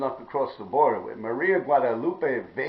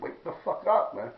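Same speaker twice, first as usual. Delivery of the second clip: imitating brother; 6 semitones higher than usual.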